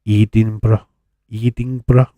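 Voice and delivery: Edinburgh said as "Ee-ting-bra", opening on a long ee; mock-pronounce Edinburgh as "Ee-ting-bra"; exaggerated pronunciation. Shown as a demonstration. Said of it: "I say it like that".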